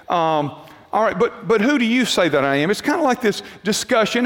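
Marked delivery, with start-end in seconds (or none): 0.9-2.7 offhand, conversational question; mildly casual, unemphatic asking; casual reading. Shown as a demonstration. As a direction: read it like part of an easy discussion. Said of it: "That's how we kinda read it".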